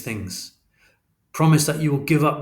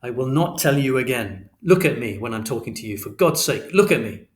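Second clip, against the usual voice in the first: raised, hard, relentless fatherly lecture; stern final warning; 3 semitones higher than usual. Acted. Father forbidding Christopher from detective work, angry and firm. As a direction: hammer each order home, losing patience.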